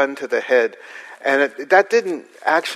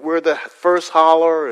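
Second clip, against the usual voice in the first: rural local; 4 semitones higher than usual. Retold or imitated. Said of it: "They'd say".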